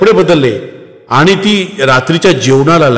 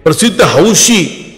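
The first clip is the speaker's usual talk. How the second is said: lightly voiced young daughter, raised and insistent; defiant daughter; 3 semitones higher than usual. Jagruti argues with mother. (आईशी हट्टाने वाद घालणारी मुलगी)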